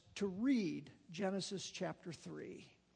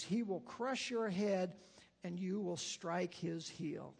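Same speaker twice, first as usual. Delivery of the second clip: scripture reading. A narrator's reading. Reads Genesis story aloud.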